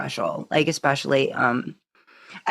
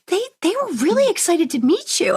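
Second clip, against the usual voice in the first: high, laughing mock husband; imitating husband; 14 semitones higher than usual. Host quoting husband about fans, laughing and high. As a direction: deliver it like a proud spouse, laughing. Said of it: "he's like".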